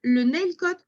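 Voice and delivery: English hotel name in a French accent. Real, not acted. Presenter reading a hotel name to webinar guests, French-accented English. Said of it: "admirer mon magnifique accent anglais".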